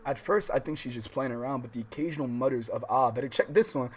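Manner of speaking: steady read-aloud voice for the novel; calm visual novel reading; story narration. A narrator's reading.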